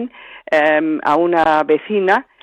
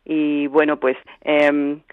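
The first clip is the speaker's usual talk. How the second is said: hoarse honking cold voice; duck voice. Real, not acted. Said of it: "en cuanto hablo un poquito me entra la tos perruna".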